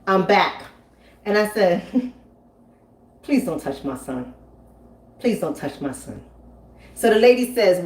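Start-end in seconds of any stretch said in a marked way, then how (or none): 3.2-6.2 low, soft and deadly calm; firm quiet warning. Retold or imitated. Comedian to stranger, quietly warning her off. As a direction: calmly warn her off your son.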